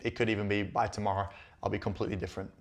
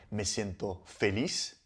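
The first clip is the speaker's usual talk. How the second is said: slow example; 2 semitones lower, 6 dB quieter, slower than usual. Shown as a demonstration. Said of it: "You can respond".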